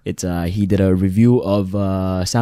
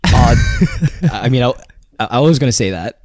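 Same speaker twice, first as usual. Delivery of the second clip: higher, laughing reply; 4 semitones higher, 5 dB louder than usual. Real, not acted. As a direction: laugh through the words. Laughing after being teased.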